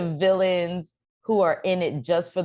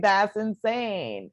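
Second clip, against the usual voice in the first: high, drawn-out disbelief; slow, high incredulous reaction; retold amazement; 6 semitones higher, much slower than usual. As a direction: stretch it out in astonishment. Retold astonishment at casting.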